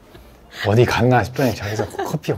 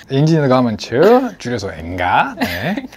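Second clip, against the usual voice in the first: shopping host voice. Pretend. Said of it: "이제 쇼호스트처럼 되고 있어".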